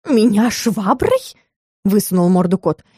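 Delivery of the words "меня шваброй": slow, drawn-out outraged question; the cat is outraged at the mop; indignant cat. A narrator's reading. Cat hears of the mop, slow indignant question.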